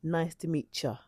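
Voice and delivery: casual, blended "meet ya", the t and y merging into ch; relaxed "meet ya", ending in a soft "cha"; casual native pronunciation. Shown as a demonstration. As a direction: say "meet ya" run together as "meetcha". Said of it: "native speakers say".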